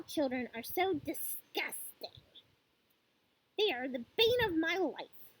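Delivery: lightly voiced tyrant, emphatic and disdainful; a touch of theatrical loathing on stressed words; scornful headmistress. Trunchbull tells the class her loathing of small children, mildly scornful.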